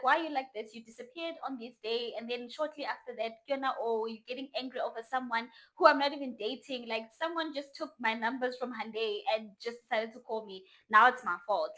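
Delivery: mildly heated telling-off; going off. Retold or imitated. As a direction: rant at him with indignant emphasis. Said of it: "So I'm going off at him now".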